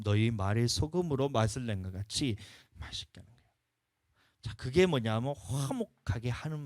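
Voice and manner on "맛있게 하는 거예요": hushed. Real, not acted. Quiet emphasis on tasty speech.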